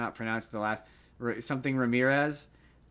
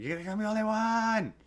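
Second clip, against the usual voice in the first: Lindsay Lohan; 10 semitones higher than usual. Retold or imitated. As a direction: squeal it thinly as a mock shriek. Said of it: "do it like Lindsay Lohan".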